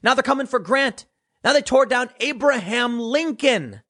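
high, lightly voiced Trump rally cadence; Trump impression. Commentator imitating Trump at a Muskegon rally, high mock voice. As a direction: do Trump telling his rally story. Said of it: "Trump was saying".

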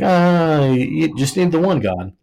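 hammed-up know-it-all preacher pitch; mock preachy missionary. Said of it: "And like".

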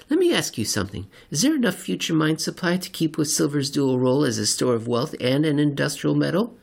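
odd seatmate. Acted. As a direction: introduce yourself too eagerly. Seatmate character voiced.

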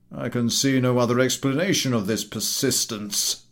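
indignant officer. Acted. Military gentleman to the collector, indignant. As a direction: bristle with offence. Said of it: "grows indignant".

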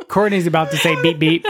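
holding back laughter; speaking through suppressed giggles; stifled giggles. Real, not acted. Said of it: "they're trying not to laugh".

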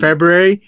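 February said as Feb-roo-erry; February with an R after the B; mispronounced February. Shown as a demonstration. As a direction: sound out the first R in February. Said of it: "some people say".

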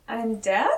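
"I'm Dak?" rising as a question. Retold or imitated. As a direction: lift DAK into an unsure question. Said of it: "Like, it's a question".

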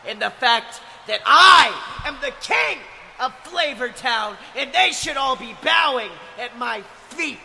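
shouted heel promo. Acted. Wrestling heel promo continues.

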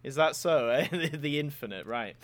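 drawn-out, unimpressed mock surprise; dryly sceptical, trailing down; sarcastic. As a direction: feign polite interest in nonsense, chuckling midway. Sarcastic reaction to the name.

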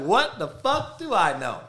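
high, sarcastic self-quote; high-voiced mock bewilderment; mock disbelief. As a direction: pitch it way up, gloating in fake innocence. Mockingly quoting his amused reaction.

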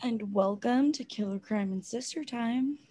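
customer service voice. Real, not acted. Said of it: "It's your customer service voice".

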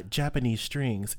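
slow, hammed-up fake European accent; slightly slowed mock European accent. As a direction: mimic a European professor saying it on TV, slowly. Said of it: "in a fake European accent".

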